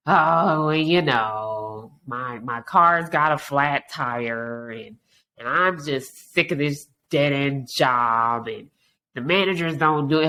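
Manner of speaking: slow, dragging, downbeat complaint; mopey complainer. Retold or imitated. Negative friend complains about car and job, slow and mopey. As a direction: sigh through the list of troubles. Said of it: "Then day two is".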